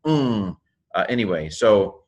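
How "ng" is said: "ng" as a lone nasal hum; double gamma sound. Shown as a demonstration. Teacher repeats gamma gamma, isolated nasal "ng". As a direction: hold "ng" briefly by itself. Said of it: "gamma gamma is pronounced".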